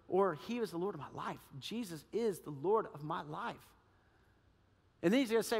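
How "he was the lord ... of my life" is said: hushed confession. Retold or imitated. Sincere confession of faith.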